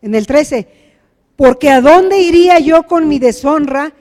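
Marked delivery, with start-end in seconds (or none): 1.4-3.9 raised, louder protest; impassioned plea. Acted. Sister pleading with her brother, impassioned. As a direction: plead against being dishonoured.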